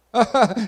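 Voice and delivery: riso alto e curto de deboche; risada zombeteira. Acted. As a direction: ria como quem caçoa da criança. Imitando riso de quem zomba. (risada de deboche de quem zomba da criança)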